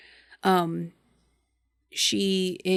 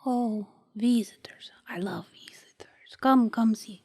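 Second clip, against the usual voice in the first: put-on whispery old abuela; old grandmother voice; 3 semitones higher than usual. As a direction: invite like a frail grandma.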